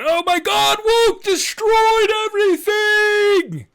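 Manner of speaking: mock the pearl-clutchers; mock outraged conservative. Host mocking critics of the scouting name change, shrieking parody. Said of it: "get over yourselves, folks".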